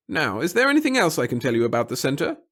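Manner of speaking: high, nervous little official; a fussy, timid bureaucrat. Acted. Pettigill, polite.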